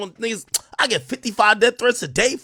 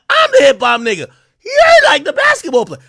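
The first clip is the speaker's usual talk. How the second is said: boastful shout; 5 semitones higher than usual. Retold or imitated. Telling Shaq off, high boastful shout. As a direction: puff up and yell the boast. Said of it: "But I'm like".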